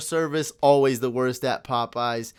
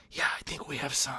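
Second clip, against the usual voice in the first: imitated quiet reply; 9 dB quieter, faster than usual. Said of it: "she whispered quietly".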